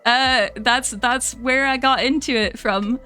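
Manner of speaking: relaxed Scottish accent, explaining fondly; easy conversational Scottish accent. Shown as a demonstration. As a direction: chat on in a Scottish lilt. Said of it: "I can bring it out a bit".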